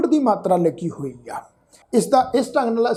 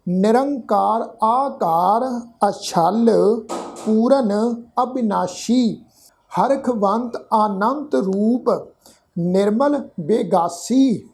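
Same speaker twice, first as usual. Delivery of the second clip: slow, word-by-word verse reading; measured scripture reading; slower than usual. Shown as a demonstration. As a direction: read each word of the verse slowly and distinctly.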